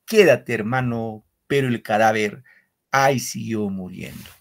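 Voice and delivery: measured, solemn reading of verse; poem recital. Acted. Teacher reading a war poem to the class, solemn recital.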